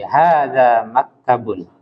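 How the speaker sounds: slow falling statement; teacher demonstrating a statement; model statement. Shown as a demonstration. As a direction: say it slowly, falling at the end. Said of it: "Coba diulang lagi".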